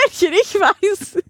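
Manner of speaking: laughing through the words. Real, not acted. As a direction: laugh while saying it.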